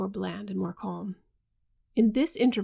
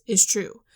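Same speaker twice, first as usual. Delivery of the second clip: is true landed firm and louder; emphatic; 6 dB louder than usual. A narrator's reading. Husband insisting to his friends, firmly emphatic. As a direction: hammer down is true. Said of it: "he said with emphasis".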